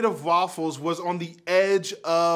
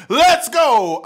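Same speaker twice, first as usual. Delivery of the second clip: higher, louder hype shout; hyped yell; 7 semitones higher, 9 dB louder than usual. Retold or imitated. Hype guy answering a friend's wild idea, shouting. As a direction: blast it like the friend who's up for anything. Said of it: "I'm like".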